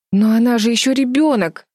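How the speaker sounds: gasping in shock. A narrator's reading. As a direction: gasp it out in horror. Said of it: "ахнула Флис".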